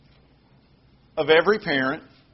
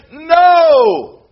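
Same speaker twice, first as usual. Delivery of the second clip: a sudden, much higher and louder "No!"; sharp parental no; 11 semitones higher, 9 dB louder than usual. Retold or imitated. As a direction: snap it out like a startled parent stopping a toddler. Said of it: "it just comes out of us as parents and we just say".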